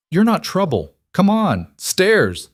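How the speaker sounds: a hint of a kind housekeeper. A narrator's reading. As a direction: coax her gently up the stairs. Rosa coaxing Lena upstairs.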